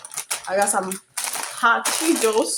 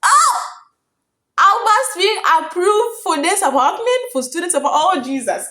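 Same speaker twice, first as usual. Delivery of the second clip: high, loud burst of joy; real delighted cry, high and loud; overjoyed; 8 semitones higher, 6 dB louder than usual. Real, not acted. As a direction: shout out the good news. Overjoyed at approval news.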